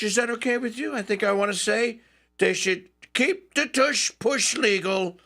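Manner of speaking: a light Trump impression, musing aloud; imitating Trump. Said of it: "and he says".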